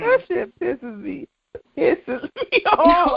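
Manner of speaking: "Pisses" with a hard, popped P, slow; slow, exasperated "Pisses me off", P exploded. Real, not acted. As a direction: punch the P in "Pisses" and draw it out. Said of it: "with a whole hard P".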